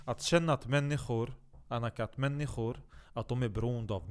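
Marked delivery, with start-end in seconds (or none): none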